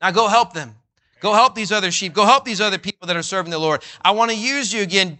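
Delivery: rally him to get back up; urgent encouragement. Pretend. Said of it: "He immediately tells him".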